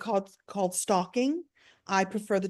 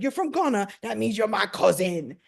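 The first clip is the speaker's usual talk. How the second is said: playful British imitation. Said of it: "playing with me like".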